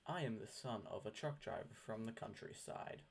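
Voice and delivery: every word spoken slowly and clearly: "I am the son of a truck driver from the countryside"; measured, careful dictionary reading of "I am the son of a truck driver from the countryside"; slow clear dictionary pronunciation. Shown as a demonstration. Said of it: "Let's hear that one more time".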